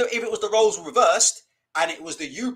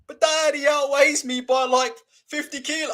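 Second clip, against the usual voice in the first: protesting son; 6 semitones higher, 4 dB louder than usual. Retold or imitated. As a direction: plead the weight difference.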